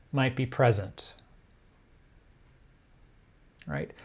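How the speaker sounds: measured meditation guiding with long pauses; guided meditation. Real, not acted. Teacher guiding listeners to turn their attention inwards, unhurried meditation delivery. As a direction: ease them into stillness, phrase by phrase.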